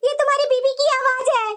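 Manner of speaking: a touch of crying in the voice; half-sobbing plea to her son, acted; tearful mother. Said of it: "तू क्यों इतना रो रही है".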